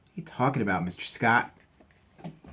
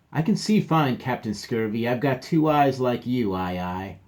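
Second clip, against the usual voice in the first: indignant pirate; 2 semitones higher, 3 dB louder than usual. Acted. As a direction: insist you see just fine.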